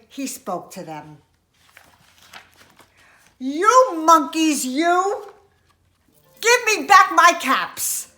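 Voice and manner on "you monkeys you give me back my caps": loud, high peddler's demand; acted storybook outburst; angry scolding. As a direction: scold the monkeys at full voice. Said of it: "This made the peddler very angry".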